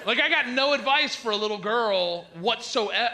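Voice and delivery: exasperated. Real, not acted. Comic telling the audience he's helpless, exasperated shout. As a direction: throw up your hands at the crowd.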